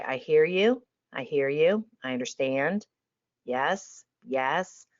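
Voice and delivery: calm them like a hand on the shoulder; calm reassurance. Shown as a demonstration. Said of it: "You stay calm".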